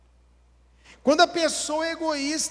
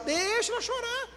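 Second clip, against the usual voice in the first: exasperated insistence; 11 semitones higher, 4 dB quieter than usual. Acted. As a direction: stretch the first word and soar high. Exasperated repeat after an objection.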